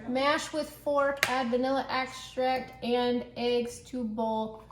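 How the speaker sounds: put-on slow, playful Russian accent. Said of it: "I'm talking in a Russian accent".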